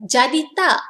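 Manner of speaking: casual Malay question checking plans; asking for confirmation. Shown as a demonstration. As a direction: ask a friend if the plan is still on. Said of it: "This is how you ask when you want confirmation".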